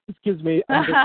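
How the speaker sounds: coughing, choking on wine; choking on a drink. Real, not acted. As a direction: clear the throat after a sip. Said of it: "choking on my white wine".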